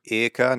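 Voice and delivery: "Ica" with the American short I, cut out on its own; mock pronunciation lesson. Showing a foreigner the right ending, mock correction. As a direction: model just the "Ica" ending pedantically. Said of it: "You go".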